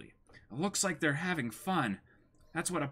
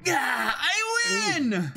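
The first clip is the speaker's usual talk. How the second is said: much higher, loud victory yell; triumphant cry; 10 semitones higher, 5 dB louder, much slower than usual. Acted. Nami beating the pirates at drinking, triumphant shout. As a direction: crow over the win.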